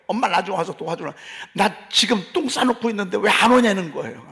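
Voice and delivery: mildly acted wail of a child; crying child calling mother. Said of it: "막 우는 거지". (우는 아이를 살짝 흉내 낸 투정)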